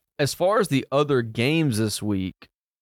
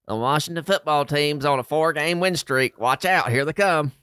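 hyped-up fan impression, pitched higher; Nate Bivens; 4 semitones higher than usual. Host relaying a fan's message about his team's win streak, imitated hype. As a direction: crow it like an excited fan imitation. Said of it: "that's exactly how he said it".

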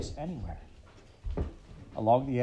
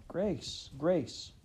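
calling; 6 semitones higher than usual. A narrator's reading.

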